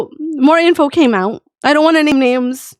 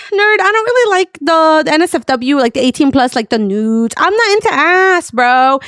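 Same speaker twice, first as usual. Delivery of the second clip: joking; 5 semitones higher than usual. Retold or imitated. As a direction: retell a joking brush-off, higher at the start. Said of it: "making it as kind of a joke".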